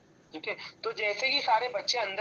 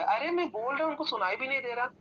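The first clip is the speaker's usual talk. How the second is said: imitated disbelief, pitched higher; mildly shocked; 4 semitones higher, faster than usual. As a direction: act out mild baffled shock. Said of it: "ऐसे shocked हो गए".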